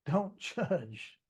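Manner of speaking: laughing through the words Don't judge. Retold or imitated. Laughing at himself after catching his own judging. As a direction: chuckle the line out loud. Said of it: "I laughed out loud".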